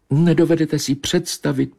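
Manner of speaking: high plaintive cat reminiscing; mournful she-cat. Acted. Narrator voices the she-cat. (vysoký, naříkavý kočičí hlas)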